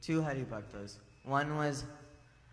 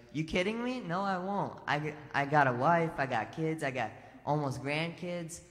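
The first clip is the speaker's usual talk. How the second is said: much higher, incredulous refusal; indignant dad; 3 semitones higher, 3 dB louder than usual. Retold or imitated. Dad refusing his son's plea, incredulous. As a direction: scoff like a dad who won't go.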